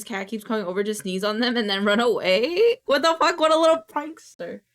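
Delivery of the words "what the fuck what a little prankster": higher, louder amused exclamation; laugh-scold the little prankster; amused outburst. Real, not acted. Streamer reacting to a cat's sneeze prank, amused outburst.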